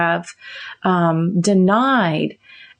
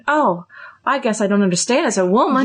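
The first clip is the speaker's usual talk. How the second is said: damsel in distress voice; 2 semitones higher, faster than usual. Pretend. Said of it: "I'm using my, my damsel in distress voice".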